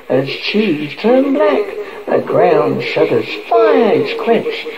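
solemn incantation. Acted. Conjuring Satan to return her son.

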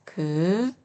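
그 with a soft, lax g; plain lax 그. Shown as a demonstration. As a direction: say 그 with a relaxed onset. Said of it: "이렇게 읽으시면 되시고요". (예사소리 ㄱ으로 부드럽게 그)

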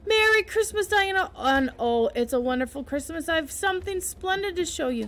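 high eager greeting; excited girl. Acted. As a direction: rush to share good news. Anne greets friend Diana.

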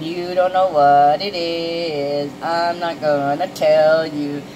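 slow, drawn-out teasing. Acted. Gift-giver keeping the present secret, playfully teasing. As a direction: draw each word out to tantalize. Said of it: "This is that teaser. They're gonna try and tease you".

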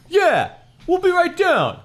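very high, loud shouted reply. A narrator's reading. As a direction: holler back down the stairs. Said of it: "I shouted".

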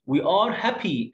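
put-on slow, clear reading for children; slow teacher read-aloud; slow model reading. Shown as a demonstration. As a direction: read it out slowly, word by word.

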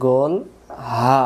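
open-throated গোল হা, full voice; round ha. Shown as a demonstration. Teacher drilling students on the round ha, full throat. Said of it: "গলা ছেড়ে দিয়ে".

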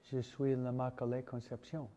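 "Je suis l'Immaculée Conception" spoken in French; French quote. Retold or imitated. Priest quoting Our Lady's words to Bernadette, in plain French. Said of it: "In patois".

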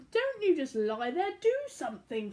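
hammed-up captain roar. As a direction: bark orders like a cross captain. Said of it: "Captain Patch roared".

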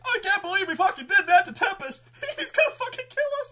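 high, loud laughing disbelief; giddy laughing. Acted. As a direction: laugh nervously at what they just did. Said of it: "they were like".

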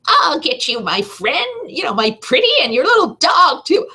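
high cackling Wicked Witch threat. Retold or imitated. On her first demo, a horrible witch voice. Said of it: "I'm gonna put a witch voice on there".

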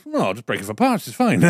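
imitating a Dubliner, lightly accented; bad Irish accent. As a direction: put on a dodgy Irish accent. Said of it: "That is the worst Irish accent".

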